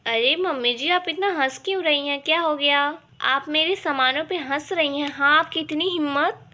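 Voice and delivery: how dare you tone; indignant bahu; offended. Acted.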